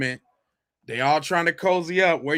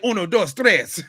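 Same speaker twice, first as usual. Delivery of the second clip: smoke alarm beep; 3 semitones higher than usual. Retold or imitated. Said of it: "Did it just say".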